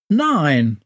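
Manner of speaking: usual speaking voice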